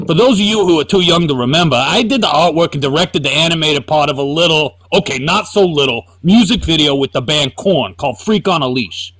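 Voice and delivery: lightly voiced braggart reading his own post; mock-boastful read as Todd McFarlane. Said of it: "Let me try to read it like Todd".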